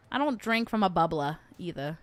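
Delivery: put-on light New England accent, dropped Rs. Streamer playing with regional words, New England accent. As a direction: say "bubbler" as a New Englander, "bubblah". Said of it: "New England is my favorite accent".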